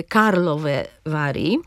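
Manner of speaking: "Karlove Vary" stressed KAR and VA; slow "Karlove Vary", each word stressed at its start; stress first syllables. Shown as a demonstration. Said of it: "akcent pada na pierwszą sylabę wyrazu". („Karlove Vary” z akcentem na KAR i VA)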